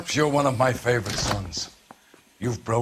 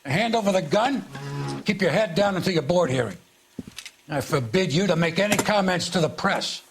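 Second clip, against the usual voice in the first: higher-pitched, authoritative reprimand; stern official order; 4 semitones higher than usual. Acted. Superior stripping the suspended detective of his gun, stern. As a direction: lay down the orders firmly, pitch raised.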